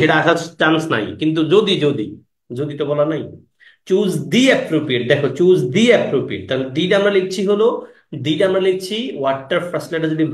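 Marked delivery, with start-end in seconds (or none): 3.9-5.0 "দি" with a long "ee" before "appropriate"; article read as dee. Shown as a demonstration. Teacher shows the article before a vowel, "দি" as "dee". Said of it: "choose দি কখন পড়বো?". 5.4-6.4 "দি" with a long "ee" before "appropriate"; article read as dee. Shown as a demonstration. Teacher shows the article before a vowel, "দি" as "dee". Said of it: "choose দি কখন পড়বো?".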